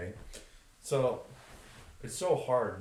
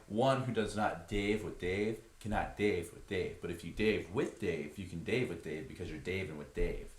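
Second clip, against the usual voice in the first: lower, mock-holy California stoner; California stoner sermon; 3 semitones lower than usual. Great Dave preaching to guests, California stoner voice. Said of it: "that California stoner voice".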